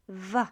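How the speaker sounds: "W" said as a v sound, "va"; pronunciation demo. Shown as a demonstration. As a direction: Polish "W" sounded like English v. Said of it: "is represented by the sound W".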